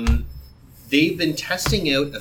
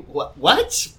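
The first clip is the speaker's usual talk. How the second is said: confused; 5 semitones higher than usual. Retold or imitated. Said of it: "And I was like".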